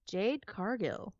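slow, drawn-out ring announcer. Pretend. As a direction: stretch each name like a big announcement. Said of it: "I'm trying to put on my announcer voice".

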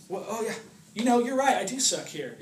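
high, hammed-up giving in; mock self-reproach. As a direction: cave in to the accuser, playfully. Acts agreeing with the enemy's accusation.

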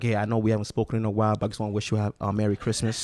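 soft mock ex voice. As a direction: read it like a sheepish ex reaching out. Voicing an ex's text.

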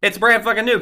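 retold outrage, voice jumping up; indignant outburst. Truck owner fuming over drained new battery, indignant.

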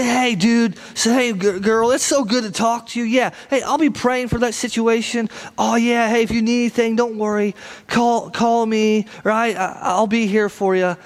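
lightly put-on customer service voice; mock-caring phone chat; fake friendliness. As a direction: feign eager concern for a friend. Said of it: "how many of us can fake our admiration".

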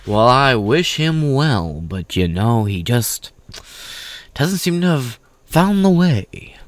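a hint of a disappointed churchman; Christianly despairing. Mocking Romney's pious disappointment, slow and high. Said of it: "Christianly despairing".

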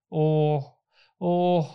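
two heavy sighing groans; lightly voiced heavy sighs of the old prince. A narrator's reading. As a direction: sigh it out, weary and sorry. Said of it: "sukket han tungt".

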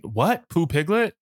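"What" and "Pooh, Piglet" both rising; baffled echo, "Pooh, Piglet" ending high; puzzled question. Retold or imitated. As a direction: query "Pooh, Piglet" with a lift on Piglet. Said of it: "And then".

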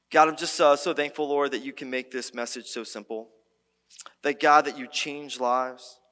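earnest spoken prayer, head bowed in tone; closing prayer. Real, not acted. Pastor prays for the church, grateful spoken prayer. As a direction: pray it simply and gratefully to God.

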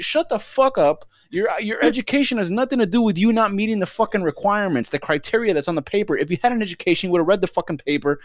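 high, emphatic imagined scolding; exasperated telling-off. Retold or imitated. Onlooker imagining telling off the bragging customer, exasperated.

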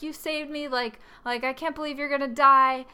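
half-hearted imitation of crying disbelief; tearful. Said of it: "Sam is also crying and saying".

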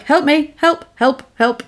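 high, halting little pleas; mock cry for help. Man left holding a fainted woman, high mock help calls.

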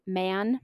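the name Mahon pronounced as "man". Shown as a demonstration. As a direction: say the surname Mahon as "man", one syllable. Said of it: "A word on the pronunciation of their last name".

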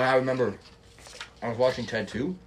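talking with a mouth full of pizza; words round a mouthful of food. Real, not acted. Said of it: "I've got a mouthful of pizza right now".

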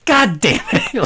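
high-pitched, exasperated mock curse; mock exasperation. Podcaster acting out a character fed up with West, mock exasperated. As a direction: let out a hammed-up, fed-up curse.

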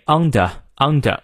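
"under" ending in a plain uh. Shown as a demonstration. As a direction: say "under" with no R at the end. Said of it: "英国人会念under".

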